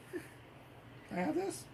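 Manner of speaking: soft coaxing whisper. Real, not acted. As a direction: gently coax the cat to let go. Coaxing toy from cat.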